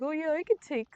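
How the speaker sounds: hammed-up eagerness, swelling loud and high; mocking own earlier self. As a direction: imitate your foolish self, stretching the last words. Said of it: "I'm like".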